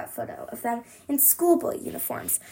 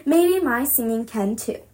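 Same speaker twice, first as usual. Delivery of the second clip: shout; 5 semitones higher than usual. Acted. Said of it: "I shout".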